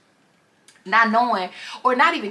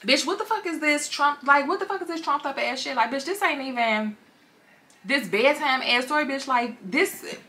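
higher, slower, sneering put-down; scornful boss; 5 semitones higher than usual. Retold or imitated. Boss mocks writer's article, higher sneering scorn. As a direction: scoff at the weak draft. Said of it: "her boss like".

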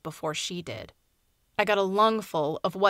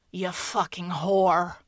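put-on slow, slurred and louder, drunk aunt cursing; drunken slur; 4 dB louder, slower than usual. Drunk aunt cursing her niece at the door, slurred. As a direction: drag the words out like she's drunk. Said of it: "she slurred".

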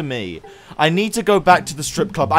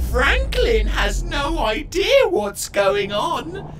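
villain gloating; slower than usual. Acted. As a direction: gloat over the framed man. Villain reveals plot.

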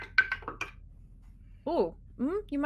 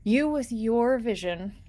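game master scene-setting. Acted. Game master describes moon pool.

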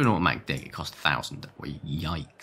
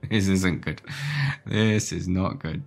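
loud dismay; 3 semitones higher, 7 dB louder, slower than usual. Real, not acted. Realises something is missing.

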